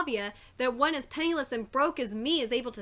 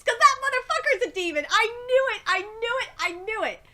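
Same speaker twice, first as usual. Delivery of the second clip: higher and louder, gleeful; excited shout; 7 semitones higher, 4 dB louder than usual. Real, not acted. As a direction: crow it like you were right all along. Reader confirms her demon theory.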